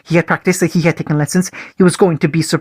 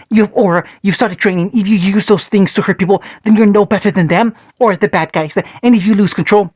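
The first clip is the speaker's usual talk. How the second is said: yelling father; 3 semitones higher than usual. Acted. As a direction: yell at him, stern and furious. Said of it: "Mito yelled".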